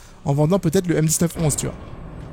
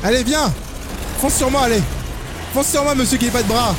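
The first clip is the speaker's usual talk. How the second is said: taunting; 6 semitones higher than usual. Real, not acted. Taunting the monster.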